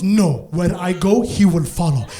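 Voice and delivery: low, firm mom impression; imitated mom. Mom refusing a leash, lightly voiced low, firm declaration. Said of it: "She goes".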